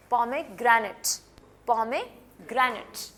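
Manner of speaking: pomegranate drawn out very slowly, each sound apart; very slow demo. Shown as a demonstration. Teacher contrasting a slow take with fast native speech. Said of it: "वो जल्दी से बोलते हैं ना".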